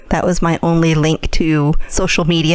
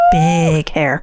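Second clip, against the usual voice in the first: high squeal. Acted. Mocking eighties big hair.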